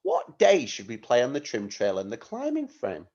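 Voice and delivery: demonstrated question tune, rising late on "climbing"; question intonation. Shown as a demonstration. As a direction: voice going up towards "climbing frame" at the end. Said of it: "My voice is going up at the end".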